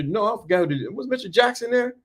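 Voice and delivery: ordinary talk, nothing marked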